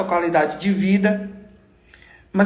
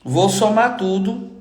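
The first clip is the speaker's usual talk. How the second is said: speaking with an inflamed throat; strained voice from a sore throat; slower than usual. Real, not acted. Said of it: "eu tô com a garganta inflamada".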